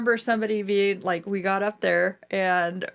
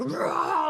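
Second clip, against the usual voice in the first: He-Man roar; 7 semitones higher, 3 dB quieter than usual. Retold or imitated. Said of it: "go He-Man mode".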